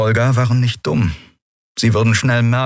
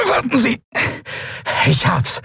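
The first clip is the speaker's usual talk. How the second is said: high creature voice, relieved; high lizard voice, finally done. A narrator's reading. Draxyl forcing the lock.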